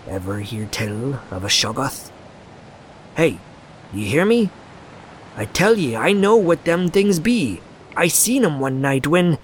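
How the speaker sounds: put-on old man growing frantic; old sailor voice. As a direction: build from hushed to alarmed. Old Zadok rising.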